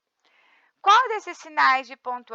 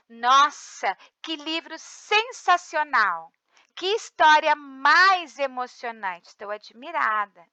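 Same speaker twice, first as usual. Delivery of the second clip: exclamation demo; slower than usual. Shown as a demonstration. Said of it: "Ponto de exclamação. Indica alegria".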